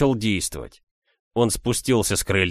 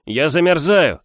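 pleading stranger; 7 semitones higher, 7 dB louder than usual. A narrator's reading.

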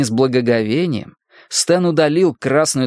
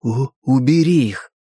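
stammering on the first sound; stuttering. Acted. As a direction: push the words out through a stutter. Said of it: "старался выдавить из себя слова".

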